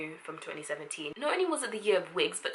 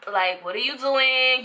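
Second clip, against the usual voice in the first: slow, louder, higher disbelief; incredulous; 5 semitones higher, 6 dB louder, slower than usual. Real, not acted. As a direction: ask it in exasperated disbelief. Mocking the quoters.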